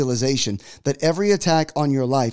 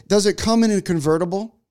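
slightly higher, interested question; lightly imitated wife; 5 semitones higher than usual. Wife asking the salesperson, lightly imitated curious tone.

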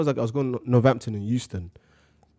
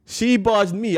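higher, louder laughing protest; 8 semitones higher, 5 dB louder, slower than usual. Real, not acted. Defending himself to his friend, laughing loud protest. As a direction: insist through laughter.

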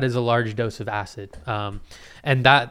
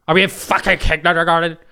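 louder, higher indignant cry; exasperated outburst; 5 semitones higher, 7 dB louder than usual. Real, not acted. Answering a silly viewer question: loud indignant outburst. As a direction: let the disbelief burst out.

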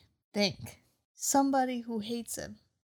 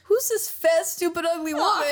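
mock blunt question; 5 semitones higher, 4 dB louder than usual. Luffy bluntly insults Alvida.

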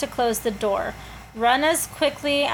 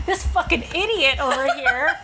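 laughing ghost impression; 5 semitones higher than usual. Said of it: "all the ghosts are like".

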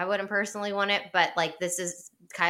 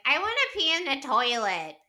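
higher, prim put-on voice answering him; mock prissy wife; 6 semitones higher than usual. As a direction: play the wife being primly proper. Kyle vs Amanda mocked.

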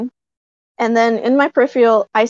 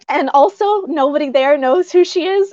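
starstruck excitement; 4 semitones higher than usual. Real, not acted. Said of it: "I see Karen Prell".

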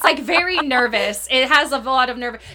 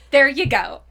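Sally's satisfied tone; 6 dB louder than usual. Retold or imitated. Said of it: "the way she says it".

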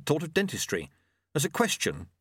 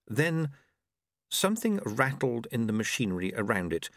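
ordinary delivery

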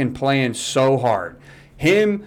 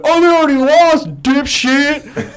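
mocking jeer; 11 semitones higher, 4 dB louder than usual.

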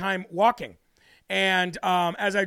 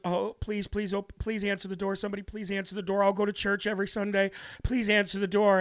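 imitating a desperate plea, softly; hushed, urgent begging under the breath, as retold; retold pleading; 5 dB quieter than usual. Stranded woman praying someone lets her in, retold as soft pleading.

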